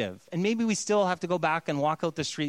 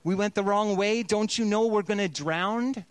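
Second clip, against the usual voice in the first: mild anguished reproach; pleading complaint; 4 semitones higher than usual. Retold or imitated. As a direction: cry out to a sleeping Jesus. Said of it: "the disciples say".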